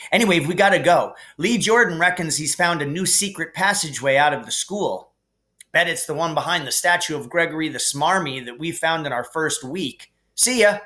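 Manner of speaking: eager twin boasting about the team; lightly voiced eager twin. Twins tell Harry about the Quidditch team, eager and proud.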